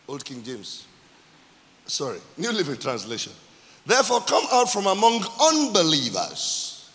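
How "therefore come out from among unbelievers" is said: drawn-out, weighty pulpit proclamation; emphatic scripture reading. Real, not acted. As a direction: proclaim the verse, leaning on key words.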